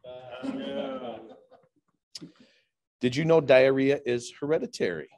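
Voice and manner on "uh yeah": laughing. Real, not acted. Laughs after punchline.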